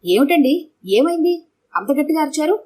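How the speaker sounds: a high, startled question; wife startled by his shout, asking high and alarmed. A narrator's reading. Wife jolted awake by the scream, alarmed and high. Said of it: "అంటూ గాబరాగా".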